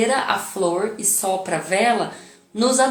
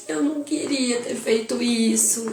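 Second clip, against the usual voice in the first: put-on child crying; 2 semitones higher, slower than usual. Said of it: "ele me chama chorando".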